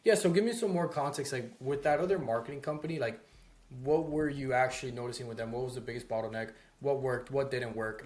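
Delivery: clear, direct and confident; talking at them. Shown as a demonstration. Sales rep questioning a prospect, direct and assured. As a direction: put the questions straight to them. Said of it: "I'm talking at them".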